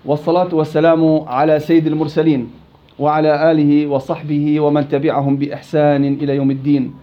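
measured supplication on a level tone; opening prayer. Real, not acted. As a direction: recite an opening du'a, evenly and a little low. (دعاء افتتاحي بنبرة هادئة رتيبة)

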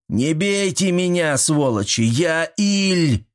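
high, slow panicked yell; frantic yell. A narrator's reading. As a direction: yell like a madman under blows. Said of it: "закричал". (Иль в безумии кричит: высокий испуганный крик)

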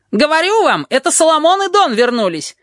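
very high excited squeal; shrill-pitched jackal crowing his guess; jackal yelling. A narrator's reading. Jackal yells to the crowd at the window, very high. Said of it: "орёт шакал".

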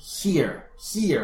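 "Here" with the mouth opened wide on the vowel; teacher modelling "Here" with a wide open vowel. Shown as a demonstration. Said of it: "Fíjate cómo abro la boca".

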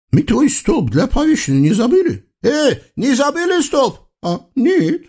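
high, singsong eastern tyrant voice; comic sultan. Acted. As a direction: play a pompous, childish sultan. (высокий певучий голос капризного султана)

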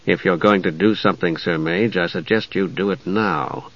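low, hushed grim urging; soft and grim. A narrator's reading. Knight prompts the mage to act, soft and grim. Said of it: "Steele said softly, grimly".

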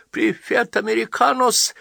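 mouth full. A narrator's reading. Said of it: "с набитым ртом".

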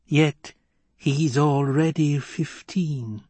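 slow wheezy crone voice; a creaky old witch, drawn out; breathless old person. Acted. Crone voice continues.

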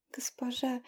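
soft breathy whisper of "Госпожа". A narrator's reading. Tearful innkeeper whispers "Госпожа" to the witch. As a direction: whisper "Госпожа" through tears.

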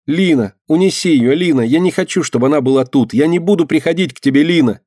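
high, loud pleading shout. A narrator's reading. Girl begs Lina to take the icon away. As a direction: cry out high, clinging and begging. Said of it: "кричала мышка".

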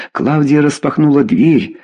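plain reading voice

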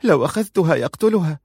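high, panicked protest; in terror. Acted. Aziza refusing the child in frightened high voice. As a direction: blurt it out in fear. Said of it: "قالت عزيزة في فزع".

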